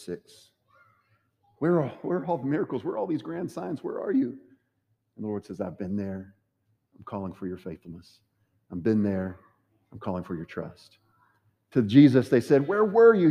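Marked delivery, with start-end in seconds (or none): 1.6-4.4 complaining why. Acted. Gideon demanding miracles. 5.6-11.0 low, soft, steady voice; calm him down; quiet reassurance. Acted. The Lord answering Gideon in a low, soft, steady voice. 12.7-13.3 accusing cry. Acted. Sisters asking Jesus.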